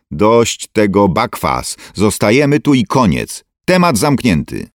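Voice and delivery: father laying down the law, stern. Acted. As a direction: slam the discussion shut. Father ends the argument.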